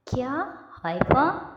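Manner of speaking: high, loud disbelieving question; surprised. Acted. Mother hears the bride's name, loud surprised question. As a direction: gasp it out in disbelief.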